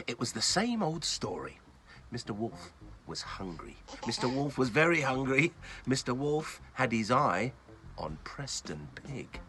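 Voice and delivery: bedtime storyteller reading aloud; story narration. A narrator's reading. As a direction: tell it gently like a bedtime story.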